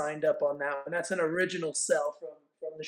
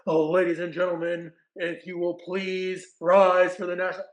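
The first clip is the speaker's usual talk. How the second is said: sound check announcement; 4 dB louder than usual. Retold or imitated. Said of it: "sound check".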